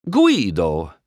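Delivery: Italian shopkeeper calling his helper. Acted. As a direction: call Guido over. Luigi calls his assistant.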